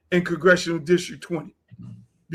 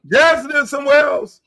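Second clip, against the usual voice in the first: emphatic repeat; 4 semitones higher, 4 dB louder than usual. Real, not acted. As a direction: repeat it higher and louder.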